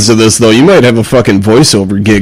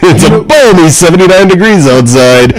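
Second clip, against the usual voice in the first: radio DJ; 3 semitones higher than usual. Pretend. Mock radio DJ announcement.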